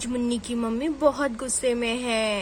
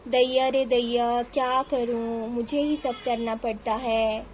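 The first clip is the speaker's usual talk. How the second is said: weary grumbling; 3 semitones lower than usual. Acted. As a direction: grumble wearily to yourself. Overworked mother grumbles to herself. (थकी हुई, धीमी शिकायत)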